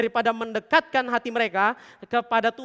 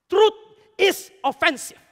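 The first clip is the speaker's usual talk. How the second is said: "Truth is offensive" said slowly, higher and louder, each word landed; slow, weighty English line; 8 semitones higher, 7 dB louder, much slower than usual. Shown as a demonstration. Preacher declaring truth to the congregation, slow and forceful. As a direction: drop the phrase like a verdict. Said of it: "Kebenaran itu menusuk".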